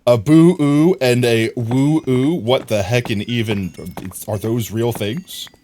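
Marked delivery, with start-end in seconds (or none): 0.1-2.3 puzzled mock voice. Puzzled repeat of chat's words.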